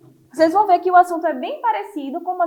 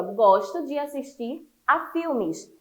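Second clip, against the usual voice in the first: slow example reading; slower than usual. Shown as a demonstration. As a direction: read out slowly for the class. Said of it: "no livro de vocês tem aí".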